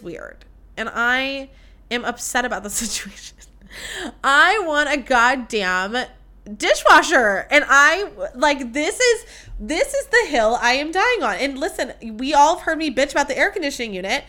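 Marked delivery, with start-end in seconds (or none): 4.2-10.3 louder, dragging out goddamn and punching dishwasher; real exasperation, hitting the last word hard; frustrated outburst. Real, not acted. Ranting about missing dishwasher.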